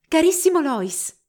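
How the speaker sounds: high, loud, drawn-out greeting; joyful cry. A narrator's reading. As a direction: cry out to your beloved as you run to him. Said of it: "gridò correndo nelle braccia di Albert".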